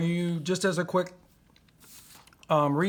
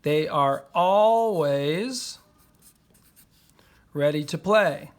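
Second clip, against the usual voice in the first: slow writing pace; 3 dB louder, slower than usual. Shown as a demonstration. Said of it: "then we can say A".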